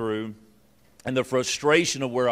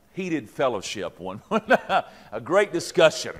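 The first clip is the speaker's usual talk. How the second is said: laughing; slower than usual. Real, not acted. Euphemism for a marital fight.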